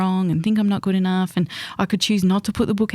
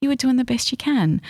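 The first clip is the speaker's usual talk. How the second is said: put-on higher, gentle reassurance to a child; kind; 7 semitones higher than usual. Adult speaking to her thirteen-year-old self, tender and reassuring. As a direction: soothe a scared younger self. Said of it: "to be really kind to".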